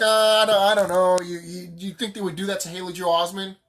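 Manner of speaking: hesitant, stumbling mock objection; mock doubter. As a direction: imitate an unconvinced skeptic, stalling on the words. Voicing doubtful people's objection.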